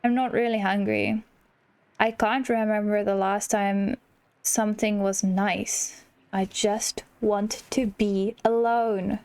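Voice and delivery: mildly hammed-up sad sigh of a voice; gloomy mope. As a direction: drag the words out like nothing matters. Voicing a gloomy character's lines.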